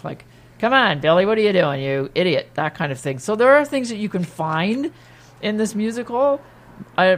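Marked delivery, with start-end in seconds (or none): 0.6-2.5 demonstrating a sardonic, impatient angel; louder, mocking jab at someone hopeless. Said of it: "I played her very sard-, sardonic".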